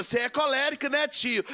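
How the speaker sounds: put-on high, childlike piping voice; imitating a small child. Preacher quoting a child after the sermon, high childish voice. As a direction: chirp it like a little kid asking. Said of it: "uma criancinha me vê pregando e fala".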